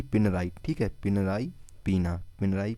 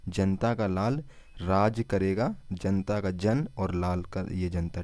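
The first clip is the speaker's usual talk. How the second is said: slow mnemonic; 2 semitones lower, slower than usual. Shown as a demonstration. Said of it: "तो कैसे याद रखेंगे?".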